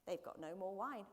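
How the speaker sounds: a hint of Yorkshire in a mother's voice; low-key Yorkshire accent. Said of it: "she sounds like she's from Yorkshire".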